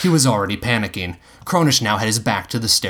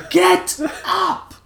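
roaring. A narrator's reading. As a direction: roar the command. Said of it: "Tiger roared".

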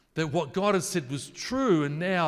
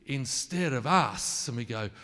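usual speaking voice

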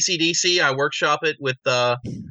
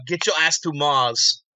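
slow movie line; slower than usual. Retold or imitated. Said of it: "I was always a fan of".

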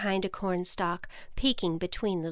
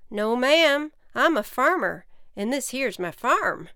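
friendly farmer; 5 semitones higher, 5 dB louder than usual. Acted. Farmer introduces himself.

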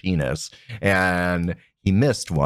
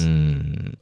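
yummy noise; 6 semitones lower than usual. Pretend. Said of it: "That's what sound like top makes?".

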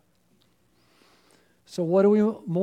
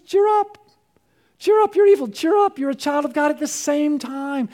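high excited preaching; 5 semitones higher, 4 dB louder than usual. Acted. Preacher voicing Jesus.

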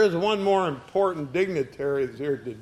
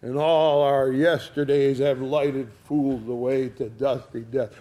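Shakespeare recital; 3 semitones lower than usual. Acted. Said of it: "put into the mouth of one of his players".

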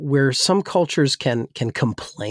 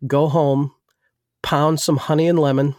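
lightly imitated thick New England accent. Older church lady advising her pastor, in a thick New England accent. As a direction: deliver it in a New England accent, unhurried, with pauses. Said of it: "she says, in her thick accent".

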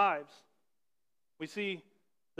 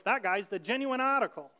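put-on lightly old-fashioned announcer voice; old-timey voice. Shown as a demonstration. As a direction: say it like an old newsreel. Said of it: "you have to say that in an old-timey voice".

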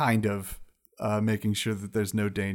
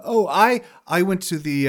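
high wizard lady voice; 7 semitones higher, 7 dB louder than usual. Acted. GM voicing wizard.

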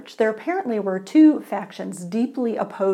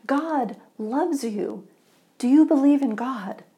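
eager; 4 semitones higher than usual. Acted. Eager man questioning stranger.

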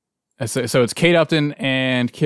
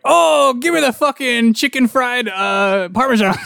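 dad's bad impression; 10 semitones higher than usual. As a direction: ham up a terrible foreigner impression. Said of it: "he does the exact same voice".

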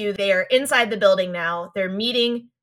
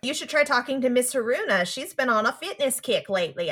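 put-on Brooklyn accent; 2 semitones higher, 3 dB quieter than usual. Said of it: "I'm trying to do Molly's Brooklyn accent".

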